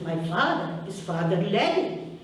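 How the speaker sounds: put-on boy in Ukrainian accent. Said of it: "I'll say it with my accent".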